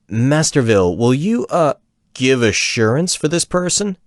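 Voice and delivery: gnome stammering, rising high on the question; nervous stammer. Acted. Gnome woodsman nervously asking Vil to vouch, stammering high. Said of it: "the woodsman finally stammered".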